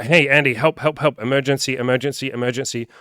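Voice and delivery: loud, high, frantic cry for help; panicked plea. Retold or imitated. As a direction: shout for help like it's a real emergency. Panicked client begging coach.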